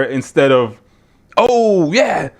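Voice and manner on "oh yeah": put-on announcer enthusiasm; mock hype. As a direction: feign excitement to sell it, a bit higher. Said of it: "just trying to sell you that".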